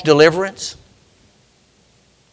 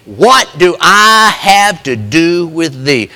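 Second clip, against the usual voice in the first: demon voice; 2 semitones lower, slower than usual. Retold or imitated. Preacher voicing the demon speaking through the man, slow. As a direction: drag it out as the spirit inside. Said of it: "they are speaking through him, saying".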